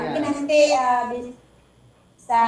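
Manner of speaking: choppy breaking-up audio; words stretched and cut by bad connection; glitching robot. Real, not acted. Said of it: "Suaranya putus-putus". (suara putus-putus seperti robot)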